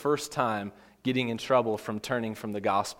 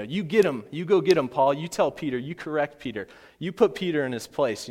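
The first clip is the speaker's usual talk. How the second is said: raised, punchy cheering from the sidelines; mock egging-on; 3 semitones higher than usual. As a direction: urge him on to confront someone. Imagines himself egging Paul on.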